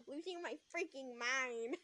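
put-on slow, childish whine; childlike voice. Shown as a demonstration. Narrator mocking how she sounded, childlike voice. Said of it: "I sound like a child".

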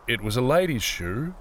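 understated, reluctant confirmation; unhappy admission. A narrator's reading. Peter confirms it to the mocking woman, unhappily. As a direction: admit it with a touch of misery. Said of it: "he confirmed unhappily".

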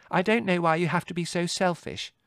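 high, loud sisterly reproach; indignant scolding. A narrator's reading. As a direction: scold him crossly. Margot quarrels with Larry.

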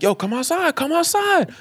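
mock challenge. Kids call the man outside, mock challenge. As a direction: goad him in a high put-on voice.

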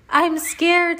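high, loud, frightened little voice; a kid's fearful squeak; scared. Acted. Emily before the tooth is pulled, high and scared. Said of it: "said Emily".

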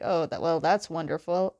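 lightly imitated lukewarm praise; unimpressed. Katara reacting to Aang's fan club, unimpressed. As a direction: say it with little enthusiasm, a touch low. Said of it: "Katara's not very impressed".

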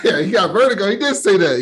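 high, loud laughing recall; amused laughing. Real, not acted. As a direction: crack up while confirming the joke. Amused reaction to recalled joke.

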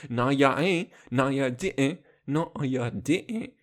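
mock-sassy disbelief; lightly hammed-up sassy retort. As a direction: play at sass, stretching out the last take. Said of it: "I wanna be a sassy straight man".

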